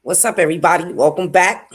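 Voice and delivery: excited greeting. Real, not acted. Live stream opening greeting.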